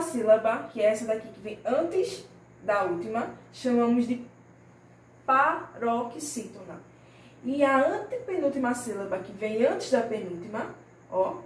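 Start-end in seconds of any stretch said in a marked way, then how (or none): 5.3-6.8 syllable by syllable. Shown as a demonstration. Teacher spells out the new term.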